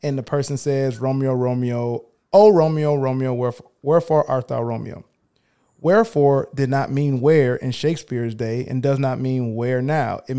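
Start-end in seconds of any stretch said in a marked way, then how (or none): 1.0-5.0 lightly hammed-up amateur hour Juliet, longing; mock the wrong reading, mildly overdone. Host mocking how amateurs read Juliet's line, lightly hammed. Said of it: "when people say it this way".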